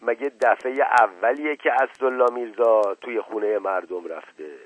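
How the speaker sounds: forceful but held-in irritation; restrained anger. Acted. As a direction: keep the anger under control, letting it show in bursts. (خشم فروخورده)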